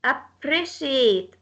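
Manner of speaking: slow "appreciate", stress on second syllable PRE. Shown as a demonstration. Teacher gives a stress example, PRE stressed in "appreciate". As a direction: draw out "appreciate", leaning on PRE. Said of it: "stress comes on the second".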